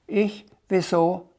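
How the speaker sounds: hohe Drachenstimme; fragender Drache. A narrator's reading. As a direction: als kleiner Drache mit hoher Stimme nachfragen. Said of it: "fragte der Drache". (kleiner Drache, verwundert und hoch)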